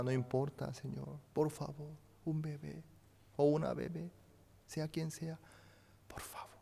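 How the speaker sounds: earnest prayer sinking to a hush; pleading prayer that trails off to a murmur; retold prayer. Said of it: "no pudimos menos que orar a Dios".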